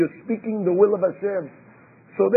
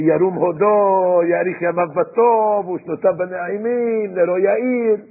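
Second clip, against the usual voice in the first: drawn-out praise; slower than usual. Retold or imitated. Mock-reverent quote of lavish praise.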